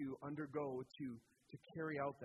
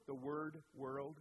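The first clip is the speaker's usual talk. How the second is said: slow careful tongue-twister; 3 semitones lower, 3 dB quieter, slower than usual. Real, not acted. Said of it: "say that five times fast".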